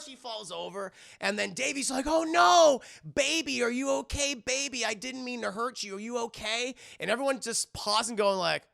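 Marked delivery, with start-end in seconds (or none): 2.1-6.8 high, hammed-up worried exclamation, easing off; mock alarm. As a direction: panic playfully over someone who fell. Voices Davey panicking over fallen Laura.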